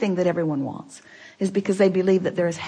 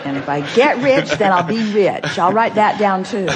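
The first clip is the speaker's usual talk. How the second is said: laughing; 4 dB louder than usual. Real, not acted. Questioner teasing Abraham about advice.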